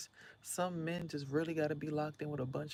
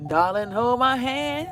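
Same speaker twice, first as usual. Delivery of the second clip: mock sweetheart; 8 semitones higher, 14 dB louder, slower than usual. Mock romantic quote.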